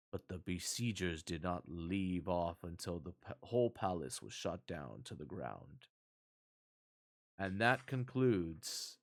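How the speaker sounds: measured storybook reading, restrained and even; story narration. A narrator's reading. Narrator reading a fairy tale to stream viewers, measured narration. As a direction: read a fairy tale aloud at an unhurried pace.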